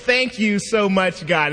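high-pitched gushing thanks to God; hammed-up grateful gushing; excited, happy praise. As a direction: retell an overjoyed prayer, punching each praise. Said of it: "I'm so excited and so happy".

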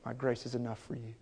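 very soft, low answer; very soft low reassurance; hushed divine reply. Acted. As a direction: whisper it as God's gentle answer. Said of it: "right next to it".

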